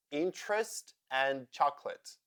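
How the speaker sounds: 'interest' and 'chocolate' with the middle vowel nearly gone; dropped schwa. Shown as a demonstration. Teacher showing learners barely heard vowels, dropped schwa. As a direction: squeeze 'interest' and 'chocolate' down to two syllables each. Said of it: "so weak that we hardly hear it".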